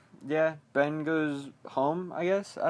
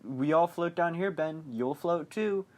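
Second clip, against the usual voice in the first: higher-pitched, lightly voiced skeleton; a playful mock-spooky taunt; 4 semitones higher than usual. Skeleton grabbing Ben's foot, raised mock-eerie warning. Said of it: "a skeleton reaches out of the water".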